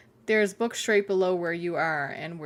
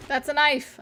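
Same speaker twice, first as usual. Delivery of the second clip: excited discovery; 7 semitones higher than usual. Real, not acted. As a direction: call out each find with delight. Excited at loot.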